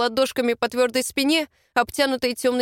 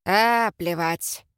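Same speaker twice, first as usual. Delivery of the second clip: grumbled; 3 semitones lower, much slower than usual. A narrator's reading. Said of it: "проворчал".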